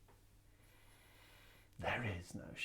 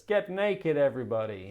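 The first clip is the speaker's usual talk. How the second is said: high, loud call that drops at the end; acted shout; 3 semitones higher, 7 dB louder than usual. Devil shouting at us, mock shout. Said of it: "he shouts at us".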